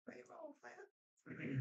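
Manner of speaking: payroll drawn out in a high slow squeak; falsetto. Pretend. Streamer cheers card back into deck, squeaky high. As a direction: sing it way up, teasing. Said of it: "repeats in falsetto".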